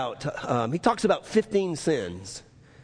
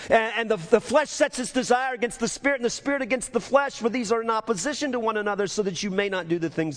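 raised, driving scripture reading; preaching; 7 semitones higher than usual. Real, not acted. Preacher reading flesh against Spirit to church, fervent preaching. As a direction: push through the verse with fervor.

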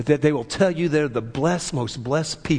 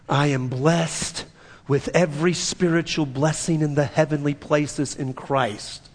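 measured cadence. Shown as a demonstration. Preacher leading the confession for all to repeat, measured cadence. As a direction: lead a group confession in steady cadence. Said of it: "now you got my cadence, right?".

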